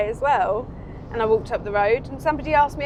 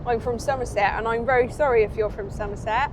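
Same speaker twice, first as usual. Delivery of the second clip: lightly put-on Somerset accent; a touch of Somerset yokel. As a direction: apologise in a mock Somerset accent. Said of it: "Shall I do another accent?".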